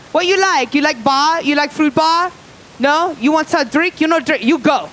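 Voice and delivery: put-on high, loud donut clerk with Asian accent; mock Asian accent. Jelly Donut clerk greeting a customer, loud mock Asian accent. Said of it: "with Asian accents".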